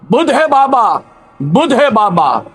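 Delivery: lightly sharp, impatient son; understated irritated retort; a touch of venom. Acted. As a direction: mildly snap it at the old father. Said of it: "लहजे में थोड़ा जहर मिलाकर ... धार से बोला".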